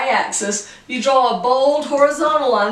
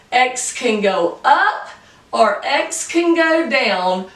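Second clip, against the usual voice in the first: slow emphasis; slower than usual. Shown as a demonstration. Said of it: "no matter what X is".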